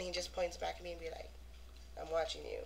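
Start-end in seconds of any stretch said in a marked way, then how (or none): 2.0-2.7 mock warning. Mimics him pointing back.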